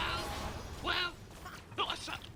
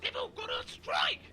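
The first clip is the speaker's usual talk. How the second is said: angry shout; slower than usual. Acted. Angry caller.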